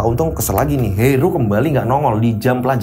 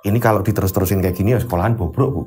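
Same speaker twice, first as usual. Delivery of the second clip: troubled husband; 8 semitones lower than usual. Acted. Teacher vents to wife.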